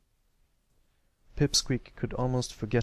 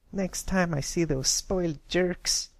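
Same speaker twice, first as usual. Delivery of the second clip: high, slow filly fuming at the bullies; seething threat, slow and high; 8 semitones higher than usual. A narrator's reading. Scootaloo vowing revenge on bullies, fuming. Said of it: "Scootaloo fumed".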